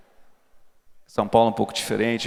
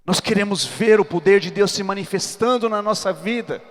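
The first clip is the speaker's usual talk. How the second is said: preaching; 7 semitones higher than usual. Acted. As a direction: build it up and preach it hard. Preaching at full force.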